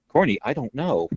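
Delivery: Terry Funk voice. Retold or imitated. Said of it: "a whisper with a squeak".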